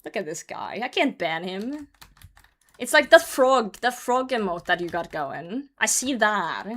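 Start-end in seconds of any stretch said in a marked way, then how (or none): 0.0-1.9 softer, lower fond reaction; softly indulgent; endeared "aw". Acted. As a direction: melt a little at someone harmless. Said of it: "And I'm just like".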